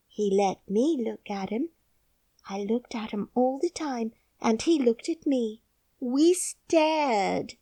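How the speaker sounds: put-on solemn little girl; young girl. A narrator's reading. Mary's girl voice.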